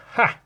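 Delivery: sudden short "ha" of discovery; triumphant "ha". Acted. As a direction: let out an aha burst. Acts out sudden idea moment.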